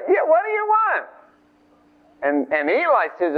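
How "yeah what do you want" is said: put-on high-pitched, eager child's reply; boy answering a call. Young Samuel reporting to Eli at night, high-pitched.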